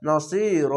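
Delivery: "নসির" with long সি and long final র; one-alif stretch. Shown as a demonstration. Teacher repeating it for learners, "নসির" drawn out on সি and র. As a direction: hold both last syllables of "নসির". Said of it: "এক আলিফ টেনে পড়বেন".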